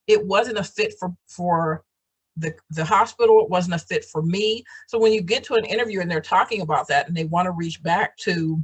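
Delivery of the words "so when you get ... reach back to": candy in mouth; mouth full. Real, not acted. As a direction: talk around a lozenge. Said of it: "I got a lifesaver in my mouth".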